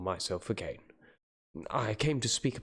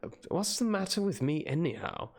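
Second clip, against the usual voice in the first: lightly voiced anxious old professor; urgent, slightly raised, theatrical; hammy dramatic reading. Reads Van Helsing's anxious speech.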